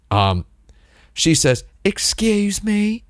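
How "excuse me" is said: high, slow, hammed-up Midwestern accent; exaggerated Midwestern accent. Tourist girl getting a stranger's attention, hammed-up high Midwestern accent. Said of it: "She didn't say it like that".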